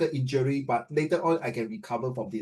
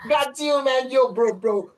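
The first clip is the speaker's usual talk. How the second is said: teasing slang bro; 9 semitones higher, 6 dB louder, slower than usual. Pretend.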